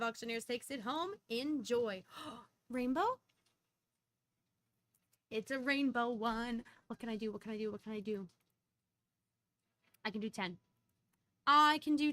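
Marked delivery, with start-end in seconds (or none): 2.4-3.2 surprised gasp. Real, not acted. Gasps at a rainbow coin. 11.5-12.1 loud excited shout; excited yell. Real, not acted. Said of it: "Sorry, I didn't mean to yell".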